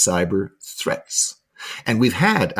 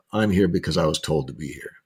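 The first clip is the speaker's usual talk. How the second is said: retold unenthusiastic reply, lower and softer; unexcited; 5 semitones lower, 4 dB quieter than usual. Student admitting to trainer he was sent, unexcited. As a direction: imitate a student with little enthusiasm. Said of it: "You don't sound excited about that".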